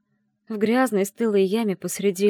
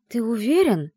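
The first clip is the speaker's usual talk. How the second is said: ordinary delivery, nothing marked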